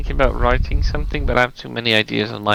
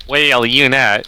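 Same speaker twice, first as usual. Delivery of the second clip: attempted Texan drawl; tentative Texan impression; Texan accent; 2 semitones higher, 3 dB louder, slower than usual. Shown as a demonstration. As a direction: try a Texan twang on a few words. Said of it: "like, a Texan accent".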